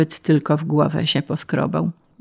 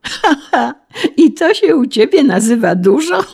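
high mocking laugh into the question; derisive laughing; 9 semitones higher, 4 dB louder than usual. A narrator's reading. Official ridiculing the peasant's idea of high tax, laughing. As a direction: laugh scornfully through the words.

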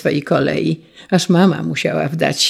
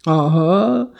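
teasing grandma; 5 semitones higher, 6 dB louder, slower than usual. Acted. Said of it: "rzekła babcia".

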